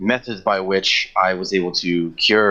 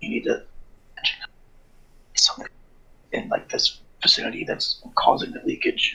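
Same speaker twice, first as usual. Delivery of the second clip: hushed whisper, much quieter; 6 dB quieter than usual. Whispering a suggestion to Nova, who can't hear it; whispering. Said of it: "can you not hear me whispering?".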